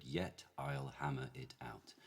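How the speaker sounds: slow, careful received pronunciation; measured modern RP, no R in "hammer"; modified received pronunciation. Shown as a demonstration. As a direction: say it word by word in modified RP. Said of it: "in modified received pronunciation, which is my base accent".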